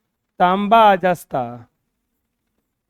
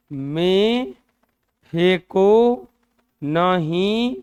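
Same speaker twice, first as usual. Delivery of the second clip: loud recitation; 4 dB louder, much slower than usual. Shown as a demonstration. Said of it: "teacher recites mnemonic emphatically".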